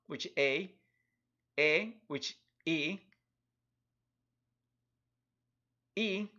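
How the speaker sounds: slow, pure Spanish vowels a, e, i, o, u, each said clearly; name each vowel slowly like a teacher; slow vowel demo; Spanish vowels spelled out. Shown as a demonstration. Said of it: "the sounds actually of the vocals in Spanish".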